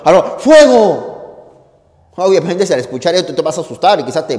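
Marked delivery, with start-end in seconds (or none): 0.0-1.1 startled fire warning yell; panicked shout. Shown as a demonstration. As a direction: gasp "¡Ah, no!" then yell "¡Fuego!" high and loud. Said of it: "Con ese tono de exclamación".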